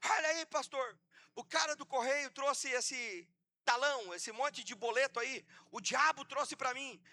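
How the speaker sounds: half-hearted retold shout; mock yelling. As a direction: call out a complaint in a mild mock yell. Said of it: "e o irmão gritando".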